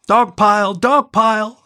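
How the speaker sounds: put-on high, loud kids yelling; gleeful yell. A narrator's reading. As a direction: pups piling on, shouting with glee. Pups shout gleefully.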